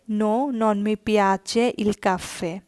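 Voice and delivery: very slow, No, non mi piace il caffè with non leaned on; slow teaching read. Shown as a demonstration. Teacher reading the no answer very slowly for learners. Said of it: "যদি উত্তর হয় না".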